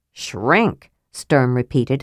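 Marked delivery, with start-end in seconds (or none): 0.1-0.9 a shocked, rising echo of the word; aghast. Acted. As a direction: repeat it in disbelief.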